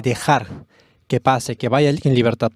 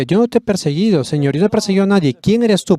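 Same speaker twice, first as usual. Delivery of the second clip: startled, defensive outburst; agitated protest; 6 semitones higher than usual. Acted. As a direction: protest in alarm, fast and rising. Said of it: "Pablo le decía".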